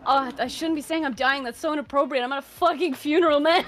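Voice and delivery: cracking up. Real, not acted. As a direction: scold yourself while fighting giggles. Scolding self while cracking up at funeral.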